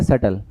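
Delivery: सटल with no b sound; सटल, b left silent. Shown as a demonstration. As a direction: say सटल, skip the b. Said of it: "सप्टल नहीं पढ़ेंगे".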